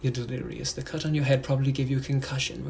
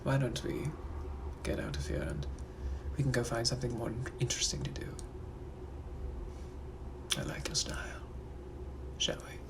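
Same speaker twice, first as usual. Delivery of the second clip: British gentleman; 2 semitones lower than usual. Acted. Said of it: "I'm also a British gentleman from the eighteen hundreds".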